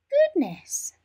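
a sudden gasp of astonishment; old neighbour spotting the bag, startled; surprised old lady. Acted. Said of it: "said the old lady".

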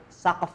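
"Saqf" ending on a bare f; no final vowel. Shown as a demonstration. Teacher showing students the reading, "Saqf" without a final vowel. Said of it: "teman-teman dengerin dulu nih".

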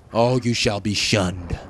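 slow, grand, hammed-up decree; theatrical banishment, slowly; mock solemn curse. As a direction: pronounce it like an ancient judgment.

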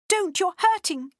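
put-on a mild scream of pain, childlike. A narrator's reading. Freddie crying out as Lottie grabs her, mild scream. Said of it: "screamed Freddie".

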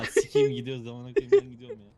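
high squeaky voice he can't drop; stuck in a high voice. Pretend. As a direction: keep the high put-on voice. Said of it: "kendi sesime dönemiyorum".

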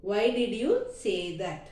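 slow, careful, word by word; slow model sentence. Shown as a demonstration. Teacher to Tamil students, giving the English slowly. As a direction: say it slowly so learners can follow. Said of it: "teacher models full sentence".

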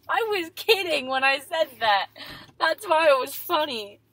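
loud, high-pitched insistence; loud protest. Real, not acted. Explaining a joke to family, loud protest. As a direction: protest loudly that it was a joke. Defending a joke while saying goodbyes.

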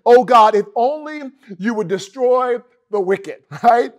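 mock angry outburst; fired-up mock fury; hard metal rage. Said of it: "turns into more like hard metal".

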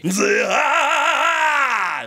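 slow, drawn-out gritty roar; Blackbeard growl. Shown as a demonstration. Showing viewers the Blackbeard impression growl. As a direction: roar it out like a pirate. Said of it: "黒ひげのモノマネするといいですよ".

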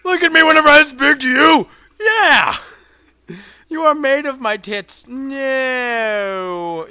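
high, full-voiced screamed demand; bossy yelling. Player scolding game enemy, high domineering yelling.

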